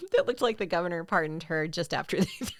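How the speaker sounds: second attempt, fighting to keep the laugh down; mostly steady, giggle threatening at the end; holding back laughter. Real, not acted. Co-host retrying the joke line, holding back laughter. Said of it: "couldn't get through it without laughing".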